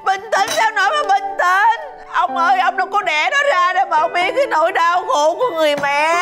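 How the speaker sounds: crying while arguing, words rushing; tearful protest. Acted. Mother crying to her husband about a mother's pain. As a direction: weep and protest at once.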